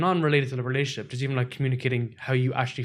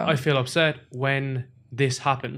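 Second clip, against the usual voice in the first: slow and even, owning the feeling; calm I-statement; much slower than usual. Shown as a demonstration. Demoing the right way to tell a partner, slow and calm. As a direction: say how you feel without blaming. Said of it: "Instead, it's like".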